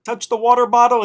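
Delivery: lifted, careful question to the spirit; high questioning voice. Retold or imitated. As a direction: ask it high and slow, like coaxing a spirit. Asking the bottle, high voice.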